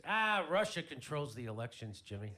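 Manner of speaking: loud, dismissive grumble, lightly acted; mock-upset retort, loud start; upset brother. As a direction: imitate a brother brushing off the question. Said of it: "My brother's all upset about the election".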